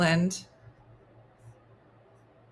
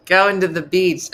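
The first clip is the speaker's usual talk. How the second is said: louder mocking take; 7 dB louder than usual. Shown as a demonstration. Two takes of the phrase.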